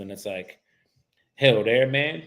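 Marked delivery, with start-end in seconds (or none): 1.4-2.2 put-on unsure stab at a Southern accent; Southern accent attempt. Imagining a voicemail in England, attempted Southern accent. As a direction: try out a Southern voicemail greeting. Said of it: "how to do a Southern accent".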